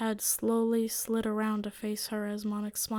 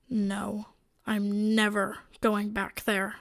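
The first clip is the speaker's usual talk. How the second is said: angry; 4 dB louder, slower than usual. Acted. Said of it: "getting so angry".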